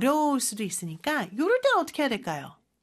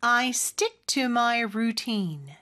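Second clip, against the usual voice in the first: slow, careful model sentence for learners to repeat; unhurried teaching demo with long vowels in "routine"; slow practice model; much slower than usual. Shown as a demonstration. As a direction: take the sentence slowly, lengthening "routine". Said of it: "같이 한번 연습해볼까요?".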